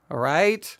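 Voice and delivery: breathy whispered all right; whispered check-in. Real, not acted. Lecturer whispering to his listeners, soft whisper. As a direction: drop to a whisper to check they follow.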